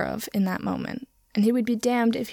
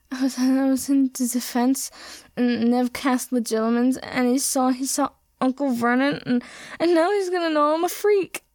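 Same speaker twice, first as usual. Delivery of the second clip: high, tearful wailing; a distraught boy wailing, rising higher; 4 semitones higher than usual. A narrator's reading. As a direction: sob the words out in distress. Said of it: "Harry wailed".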